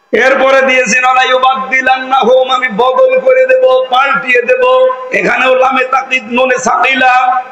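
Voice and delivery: fervent sermon voice; rousing Bengali waz preaching. Acted. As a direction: preach to the crowd with fire.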